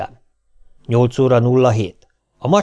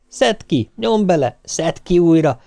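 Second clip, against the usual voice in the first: higher-pitched hurried bossing; flustered packing orders; 4 semitones higher than usual. Acted. Family packing in a rush, flustered orders.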